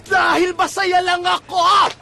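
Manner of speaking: hammed-up joyful yelling; strained happy yell. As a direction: yell till your throat hurts. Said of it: "Ang sakit sa lalamunan!".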